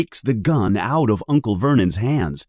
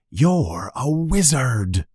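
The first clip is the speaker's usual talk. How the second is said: slow, weighty giant voice; solemn reveal; 4 semitones higher, slower than usual. Acted. Hagrid telling Harry he's a wizard, slow and weighty. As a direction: let it land slowly. Momentous revelation.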